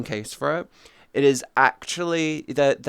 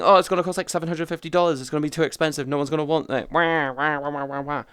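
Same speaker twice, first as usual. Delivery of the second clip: mock whining; faster than usual. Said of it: "everyone's raging, going".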